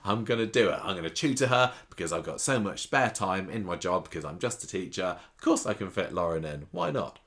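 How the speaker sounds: mocking naive teacher, lightly voiced; a touch of sarcastic innocence; sarcastic Daniel. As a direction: send up his cheerful self-sacrifice. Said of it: "And he says".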